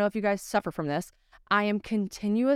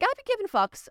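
squeaky mock protest; 13 semitones higher than usual. Playful punchline quote.

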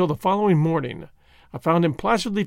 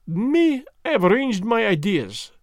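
placid; 6 semitones higher than usual. Acted. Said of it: "replied Poirot placidly".

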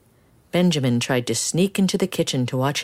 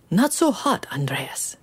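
strict grandpa; 4 semitones higher than usual. Acted. Strict grandfather scolds in kitchen.

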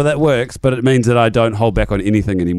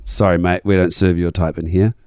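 flat setup; 5 semitones lower than usual. Shown as a demonstration. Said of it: "Here it is".

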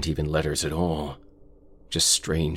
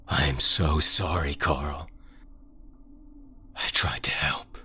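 whispered apology. Acted. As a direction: whisper it near tears. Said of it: "The whispers became".

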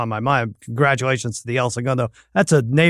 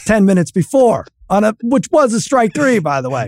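higher, indignant dad telling off; mock exasperated rant; 6 semitones higher than usual. Dad retelling his fury at his son's payback, higher and heated. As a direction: vent like a dad who caught his kid's trick.

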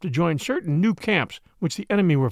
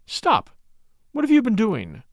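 higher-pitched, sudden demand; called-out challenge; 4 semitones higher than usual. A narrator's reading. Narrator calls out to the tiptoeing woman, sharp challenge. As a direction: call out to halt someone, pitch raised. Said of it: "I called out".

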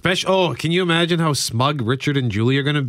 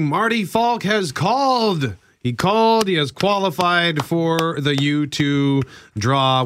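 excited announcement; 4 semitones higher, slower than usual. Real, not acted. Contest caller announced on air.

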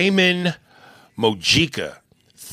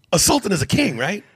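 whisper; 7 semitones higher than usual. Acted. Whispered aside.

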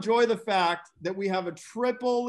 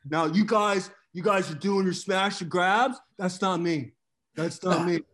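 Sam Tripoli impression. Host boasting to the guys about Bitcoin, a brash cocky Sam voice that builds up. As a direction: brag like a cocky stock picker who gets more fired up. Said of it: "That was the best fucking Sam Tripoli impression".

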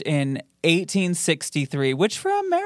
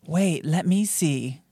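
slow drawn-out; 2 semitones higher, much slower than usual. Shown as a demonstration. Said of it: "Is it B".

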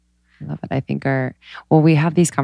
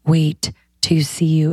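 losing her voice, half whispered; hoarse, breathy whisper from a tired voice; raspy whisper; slower than usual. Real, not acted. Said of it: "I'm losing my voice".

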